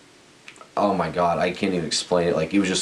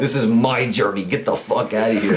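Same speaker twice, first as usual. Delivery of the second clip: raised pitch, mild mock yell; retold scream; 4 semitones higher than usual. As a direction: act out telling the dog off, half-shouted. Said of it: "I fucking scream at this dog".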